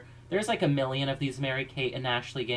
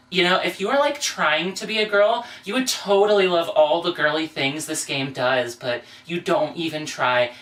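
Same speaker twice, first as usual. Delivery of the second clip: put-on valley girl voice; 4 dB louder than usual. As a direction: sneer at her outfit like a mean girl. Girly alter ego mocks her.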